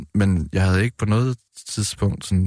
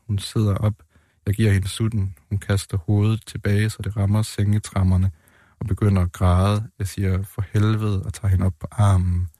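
even, understated literary reading; measured author's reading, little dramatizing; poem reading. A narrator's reading. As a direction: read the poem aloud in short, plain statements. Reads own poems aloud.

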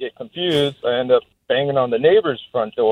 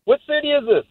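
retold lost question; 13 semitones higher than usual. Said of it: "I'm like".

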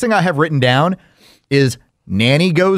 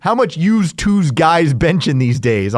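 prank caller voice; slower than usual. Retold or imitated. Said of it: "It was".

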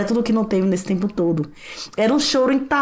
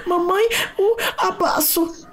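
put-on much higher, slow little-child plea; toddler's voice; 10 semitones higher, slower than usual. Toddler after crying, calling mother for a hug in a tiny voice. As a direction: ask for the hug like a small girl.

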